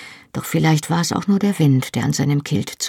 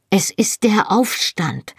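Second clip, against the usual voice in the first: urgent; 4 semitones higher, slower than usual. Acted. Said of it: "sagte ich drängend".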